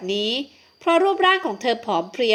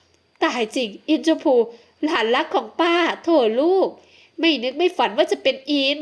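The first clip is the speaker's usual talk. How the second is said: tender aunt; 3 semitones higher than usual. Acted. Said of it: "คว้าร่างนั้นมากอดอย่างคิดถึง".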